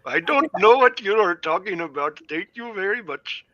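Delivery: New England aunt voice. Acted. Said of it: "sounds like one of my aunts from New England".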